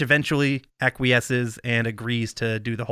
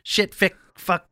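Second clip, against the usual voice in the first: excited swearing quote; 5 semitones higher, 3 dB louder than usual. Retold or imitated. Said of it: "and says".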